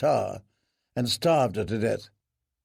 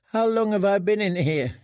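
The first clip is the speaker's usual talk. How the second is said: frightened prisoner; 7 semitones higher than usual. Acted. Prisoner asking boys.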